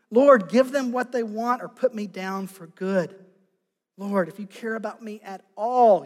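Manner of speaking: loud, pleading cry to God; exasperated plea. Acted. Moses pleads with the Lord for relief, loud and exasperated. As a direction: beg the Lord to end it, at the end of his rope. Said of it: "He was exasperated".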